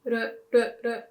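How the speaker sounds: R as a quick tapped ru; short Japanese ru for each R; Japanese R sound. Shown as a demonstration. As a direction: repeat the R as ru, isolated for learners. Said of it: "we would use the R sound".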